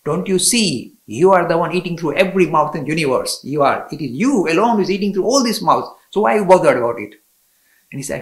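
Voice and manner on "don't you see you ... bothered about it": louder, firm motherly rebuke; lightly voiced goddess chiding her child; a hint of a loving divine scolding; goddess admonishing. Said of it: "said the Mother Goddess".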